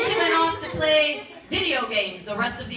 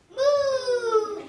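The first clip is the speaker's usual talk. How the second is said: happy cow moo; 7 semitones higher than usual. Acted. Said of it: "the cow mooed happily".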